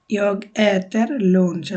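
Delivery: "Jag har ett jobb" said very slowly and clearly; slow model sentence. Shown as a demonstration. Teacher modelling a Swedish sentence, very slow. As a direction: lay each word out slowly for learners.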